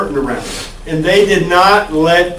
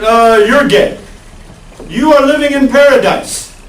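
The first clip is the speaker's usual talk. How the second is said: put-on terrible Russian accent; 4 semitones higher than usual. Soviet state telling citizens they live in paradise, bad Russian accent. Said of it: "and I do a terrible Russian accent".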